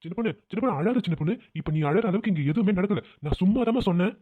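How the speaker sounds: gentle placating husband; soothing. Acted. Husband soothes his crying wife. (சமாதானப்படுத்தும் கனிவான குரல்)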